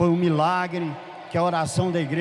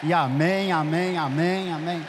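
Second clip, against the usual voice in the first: praying out loud. Retold or imitated. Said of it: "Aí eu escancarei".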